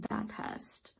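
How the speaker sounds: breathless, panicky whisper; gasping for air between words; hyperventilating. Real, not acted. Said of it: "so that is what I'm panicking about right now".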